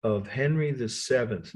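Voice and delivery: measured pace for note-taking; slow dictation. Shown as a demonstration. Lecturer dictating a long title to students, slowly. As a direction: say it slowly, pausing after Chapel. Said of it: "so I'll say it slowly".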